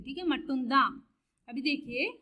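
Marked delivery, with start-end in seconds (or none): 0.3-0.8 मट्टुंदा as one word ending in "daa"; silent final n. Shown as a demonstration. Teacher recapping for learners, मट्टुंदा with open final "daa". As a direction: run मट्टुंदा together, no closing n. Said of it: "ऐसे बोलते हैं".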